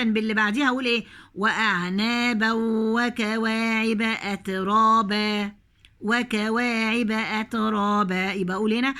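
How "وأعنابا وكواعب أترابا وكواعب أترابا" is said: slow measured tajweed chant; slow Quranic recitation. Shown as a demonstration. Recites verse.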